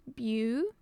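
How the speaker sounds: "beau-ti-ful" with long pauses between beats; syllable by syllable. Shown as a demonstration. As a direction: leave a big gap after each part of "beau-ti-ful". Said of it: "it has three syllables".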